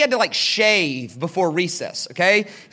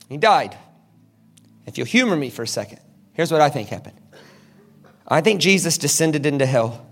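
ordinary delivery

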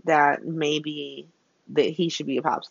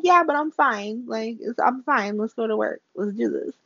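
breezy denial; 4 semitones higher than usual. Retold or imitated. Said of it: "she's like".

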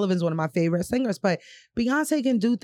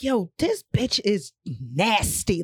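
awed, stretched-out exclamation; drawn-out awe; slower than usual. Retold or imitated. Listener reacting to a singer's runs, drawn-out awe. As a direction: draw it out in disbelief.

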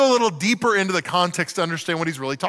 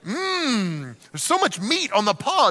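fake delight.

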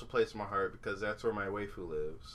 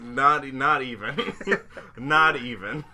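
laughing; 3 semitones higher, 4 dB louder, slower than usual. Real, not acted. Laughs while denying.

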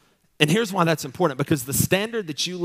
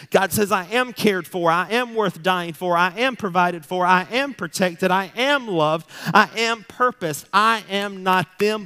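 declaring it out loud; 4 semitones higher, 3 dB louder than usual. Shown as a demonstration. Preacher showing how to speak truth aloud, louder and higher. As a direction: proclaim each truth over yourself. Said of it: "sometimes you gotta say that stuff out loud".

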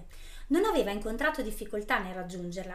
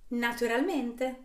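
smug smile; 2 semitones higher, 3 dB louder, slower than usual. Acted. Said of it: "sorrise la strega".

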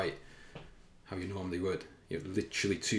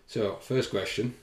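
put-on kids' TV presenter; 3 semitones higher, 6 dB louder, slower than usual. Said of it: "feel like I'm on Blue Peter".

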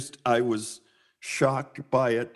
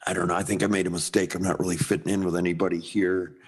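dejected; 8 semitones lower, faster than usual. Retold or imitated. Retold dejected call to wife.

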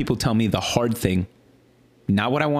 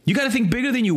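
normal talking voice

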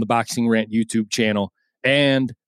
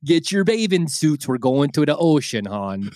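put-on Baltimore accent. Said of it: "somebody from Dundalk, Maryland".

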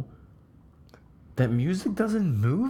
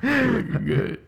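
high, loud, hammed-up president voice; Bill Clinton; 13 semitones higher, 3 dB louder than usual. Shown as a demonstration. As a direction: greet an old friend as Clinton. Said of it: "throaty Bill Clinton".

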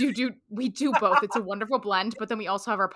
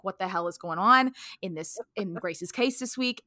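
put-on New York accent. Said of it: "a super New York accent".

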